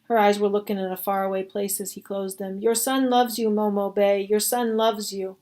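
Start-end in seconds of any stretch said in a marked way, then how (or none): 2.6-4.2 plain-paced, lightly grieving words to the dead woman; grieving farewell. Acted. Pink telling the dead Momo Bay he loves her. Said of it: "He sobbed as he kissed her". 4.2-5.4 mild sob. Acted. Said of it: "He sobbed as he kissed her".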